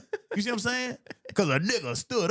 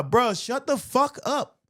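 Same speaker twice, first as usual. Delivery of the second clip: slow, higher, fed-up scolding; exasperated; 7 semitones higher, slower than usual. Real, not acted. Telling cowards to stop whining, slow exasperation. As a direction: drag it out, totally done with them.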